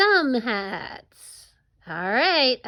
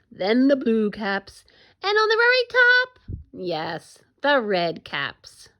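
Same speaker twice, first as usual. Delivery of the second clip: animated storytelling with big swings in pitch; story read-aloud. Acted. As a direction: read it to children, drawing out the key moments.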